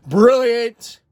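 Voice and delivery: high, loud burst of praise; excited God. Acted. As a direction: explode with delight. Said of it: "God's all like".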